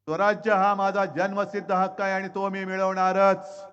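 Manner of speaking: loud, ringing courtroom vow; defiant declaration. Retold or imitated. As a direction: proclaim it like a freedom fighter. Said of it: "त्यांनी ठणकावून विचारलं होतं".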